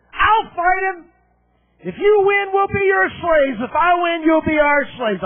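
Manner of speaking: lightly voiced giant daring them; giant's challenge. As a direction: throw down the dare from the other side. Goliath's challenge, pitched up.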